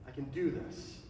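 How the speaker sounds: low, soft self-talk; lightly reassuring yourself under your voice; quiet self-assurance. Retold or imitated. Nervous self-talk before first sermon.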